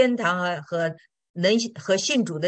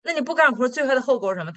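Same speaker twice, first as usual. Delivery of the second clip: higher-pitched, brisk pastor pressing a question; 6 semitones higher, 3 dB louder, faster than usual. Retold or imitated. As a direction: play the pastor challenging the mother. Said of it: "那个牧师就说". (牧师追问，声音偏高)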